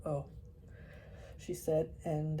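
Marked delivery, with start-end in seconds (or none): 0.0-0.3 loaded oh. Acted. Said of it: "she got a lot into that word".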